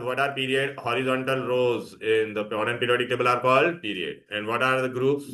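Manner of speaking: very slow, drawn-out question; slow dictation. Shown as a demonstration. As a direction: read it out slowly for copying. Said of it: "teacher dictating question".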